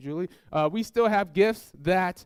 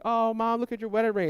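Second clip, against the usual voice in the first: higher-pitched retold gushing; excited admiration; 4 semitones higher than usual. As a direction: admire it like an impressed kid. Child admiring mother's new ring.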